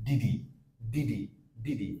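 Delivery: did he blended into ডিডি; weak form didi. Shown as a demonstration. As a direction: say ডিডি as one quick word. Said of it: "did plus he একসাথে উচ্চারণ হচ্ছে". (ডিডি একসাথে দ্রুত উচ্চারণ)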